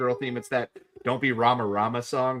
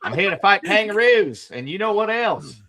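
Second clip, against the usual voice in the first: put-on Australian accent, laughing; 5 semitones higher than usual. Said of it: "thick Australian accent".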